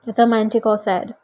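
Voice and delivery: ordinary delivery, nothing marked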